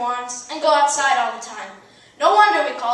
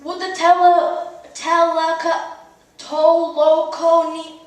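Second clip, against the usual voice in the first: halting, slow stumble over the name; a judge tripping on a long Russian name; stumbling judge; 2 semitones higher, 5 dB louder, slower than usual. Retold or imitated. Judge calling the couple up, stumbling over the name. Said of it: "he said".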